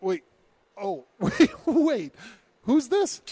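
high, loud, laughing confusion; mock alarm. Staff take son's call after delivering wrong patient, mock alarm. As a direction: stammer in hammed-up sudden realisation. Acts staff realising the mistake.

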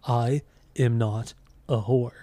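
lightly imitated deadpan robotic singer voice; slow monotone singer impression. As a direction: say it slowly, flat and deliberate. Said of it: "It's the way he says it".

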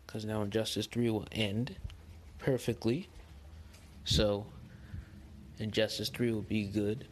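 echoey living room sound. Real, not acted. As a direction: voice ringing in a bare room. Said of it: "If you hear echo".

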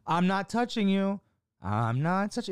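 put-on high, teasing kid's chant; mock playground taunting; childish taunt. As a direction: needle them like an annoying sibling.

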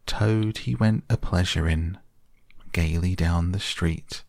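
a hint of a squeaky Chief Weasel crooning; high squeaky voice. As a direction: Chief Weasel mock-singing a song about Toad. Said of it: "began in a high, squeaky voice".

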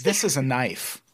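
put-on jokey Australian film-hero accent; Crocodile Dundee. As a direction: quote it in a put-on Aussie accent. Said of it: "That was my Crocodile Dundee".

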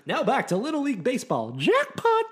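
put-on high wheezy old man; creepy old man voice; Herbert voice. Doing Herbert lines.

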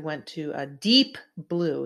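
"deep" leaned on, slowed; slow, weighted "deep"; stress on deep. Retold or imitated. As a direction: give the word "deep" weight like deep state. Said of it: "He emphasized the word deep".

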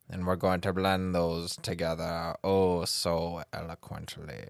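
soothing spooky serial killer voice; spooky Vincent Price voice. Pretend. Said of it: "the spooky Vincent Price-esque voice".

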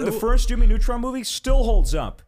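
high, loud fired-up claim; excited. Real, not acted. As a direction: defend it with passion. Passionate defence of movie.

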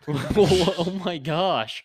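laughing. Real, not acted. Laughing at friend's drunk rant.

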